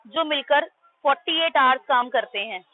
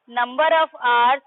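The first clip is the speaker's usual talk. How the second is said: slow emphasis; much slower than usual. Shown as a demonstration. Stressing the key term.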